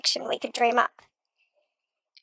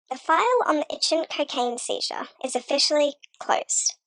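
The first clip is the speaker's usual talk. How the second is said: whispering; 2 semitones higher than usual. Acted. Dramatic true-crime narration.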